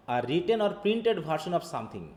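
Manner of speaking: reads each English word out slowly; careful, slow read-aloud; slow textbook reading. Acted. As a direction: dictate it word by word to the class.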